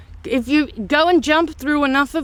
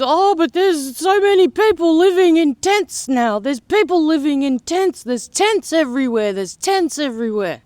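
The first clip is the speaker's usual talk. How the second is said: quoting the idiot; 3 semitones higher than usual. Retold or imitated. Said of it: "Like I said to this idiot".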